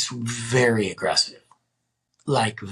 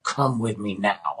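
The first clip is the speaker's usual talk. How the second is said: slow, deliberate imitation of her order; retold firm demand; 3 semitones lower than usual. Woman dragging him to the field, slow firm demand. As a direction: space out each word to insist.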